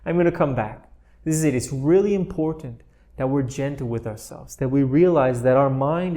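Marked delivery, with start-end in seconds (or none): 0.1-0.9 light laugh. Shown as a demonstration. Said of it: "So laugh a little bit".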